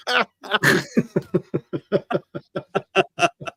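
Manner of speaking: long, helpless run of laughter; real laughter. Real, not acted. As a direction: crack up at your own jab. Laughing at his own teasing insult.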